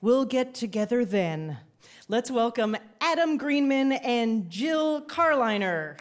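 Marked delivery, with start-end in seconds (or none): 0.0-1.6 mock-wistful title, falling away at the end; sad. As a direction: announce it with a sad, sighing fall. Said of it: "I said it sad like that".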